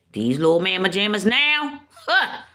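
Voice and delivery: rising, incredulous jab ending in a high huh; disdainful. Real, not acted. Mother comparing today's kids to her own, disdainful. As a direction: scoff upward at the very idea.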